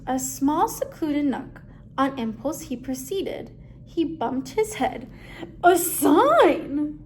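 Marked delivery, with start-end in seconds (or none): 5.6-7.0 surprised. Acted. Duck bumps into a sign.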